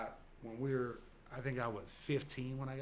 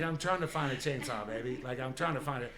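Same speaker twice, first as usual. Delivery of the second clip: put-on girlfriend quoted; 6 dB louder than usual. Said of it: "She's like".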